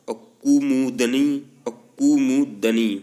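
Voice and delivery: slow, deliberate syllable-by-syllable कुमुदनी; teacher drawing out कुमुदनी for students; careful spelling-out. Shown as a demonstration. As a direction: stretch out कुमुदनी so each sound is heard. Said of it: "इनको विशेष तौर से आप गौर करके देखिए".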